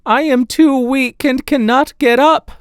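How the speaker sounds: frail grandmother calling from bed. Acted. Grandmother calls from her bed.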